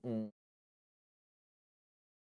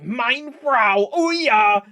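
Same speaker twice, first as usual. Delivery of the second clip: loud, high, hammed-up German shouting; shouted German accent; 8 semitones higher, 10 dB louder, much slower than usual. Shown as a demonstration. Streamer showing off bad German by shouting, mock German accent. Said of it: "if I start, like, shouting, then that's German".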